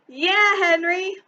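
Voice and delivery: slow, loud high cheer; yelling. A narrator's reading. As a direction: jeer him with a drawn-out cheer. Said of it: "yelled some of the big boys".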